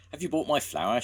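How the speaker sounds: loud high demand; shout. A narrator's reading. Eli shouting at Jones for his flour, loud. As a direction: call out for the flour. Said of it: "shouted Eli".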